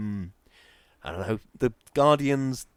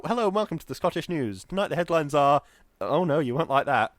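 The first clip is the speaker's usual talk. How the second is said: put-on Scottish news accent; 4 dB louder than usual. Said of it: "a Scottish accent 'cause he's a skilled performer".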